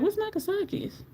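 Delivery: high, puzzled "What's Nakasaki's?"; high, soft bewildered ask; confused question. Retold or imitated. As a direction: squeak it out, baffled. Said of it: "I was like".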